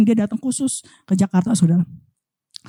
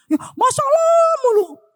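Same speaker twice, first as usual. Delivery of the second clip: stretched, high, mocking sigh over endless problems; exasperated whine; 12 semitones higher, slower than usual. Preacher mocking congregants' endless problems, exasperated whine. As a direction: drag it out like you're fed up.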